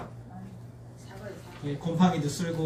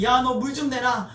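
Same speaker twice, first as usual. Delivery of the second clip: mock grumbling demand; 5 semitones higher than usual. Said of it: "원망과 불평과 온갖 악담을 쏟아놓는 거예요".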